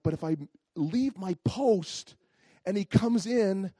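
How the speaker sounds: mildly flustered, stammering near the end; retold worry, tripping over the words; panicky. Husband fretting about leaving his post, mildly panicky. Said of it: "So I'm all panicky".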